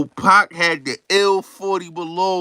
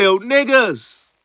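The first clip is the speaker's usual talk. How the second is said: character quote; 7 semitones higher, 4 dB louder, slower than usual. Retold or imitated. Retelling a rapper's lines.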